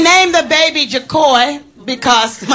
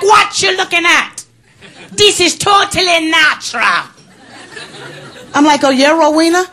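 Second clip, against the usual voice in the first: indignant sassy shout; 7 semitones higher than usual. Retold or imitated. Teller yelling at Rowena about her breast on screen, indignant. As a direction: yell back at her, full of attitude. Acted quarrel with Jamaican woman.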